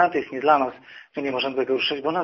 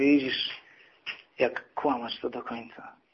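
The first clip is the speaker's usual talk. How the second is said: very soft, quiet words spoken close up. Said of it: "podszedł tak do ucha i mówi".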